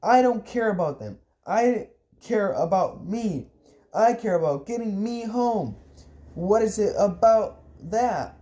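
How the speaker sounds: high, exasperated tirade; angry shouting. Acted. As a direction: keep the pitch up and insist on each point. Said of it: "I shouted".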